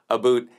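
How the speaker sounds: "a boot" said with an oo vowel; mock Canadian "about". Streamer quoting a Canadian viewer's denial, "a boot" with oo. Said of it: "we do not say".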